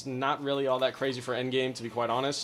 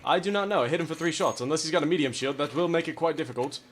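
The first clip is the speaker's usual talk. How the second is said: loud, pompous gentleman; mock gentleman duelist; 5 semitones higher, 4 dB louder than usual. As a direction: boast like a courtly duelist. Duel taunts in gentleman voice.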